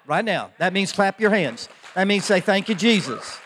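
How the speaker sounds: loud, high-pitched rallying call; urging applause. Real, not acted. Pastor calls the congregation to applaud the worship team, loud rallying. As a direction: rouse the congregation to clap right now.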